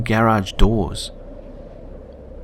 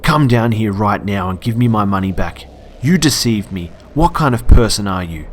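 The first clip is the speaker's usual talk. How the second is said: retold scream, a touch louder; lightly acted angry demand; understated shouting customer; mild mock yell; 5 dB louder than usual. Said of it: "he begins screaming at me".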